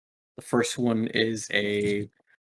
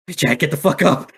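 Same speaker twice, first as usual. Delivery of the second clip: urgent shout; 4 semitones higher, 5 dB louder than usual. Acted. Urging fallen ally.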